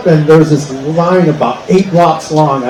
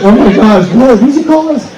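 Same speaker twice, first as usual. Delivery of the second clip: high, offended gasp of a tourist; mock shocked tourists; 7 semitones higher than usual. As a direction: play the scandalised visitor, pitch rising. Tourists acting offended at word.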